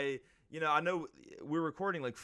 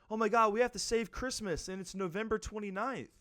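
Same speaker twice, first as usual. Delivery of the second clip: mock panic; 9 semitones higher than usual. Mock panic about saving Christmas.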